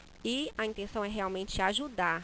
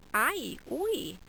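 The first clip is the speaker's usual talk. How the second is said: higher yelps of pain; pain cries; 5 semitones higher than usual. Shown as a demonstration. Teacher demonstrating pain interjections, mock yelps. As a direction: yelp as if hurt. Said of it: "pronunciar da forma como eu queria".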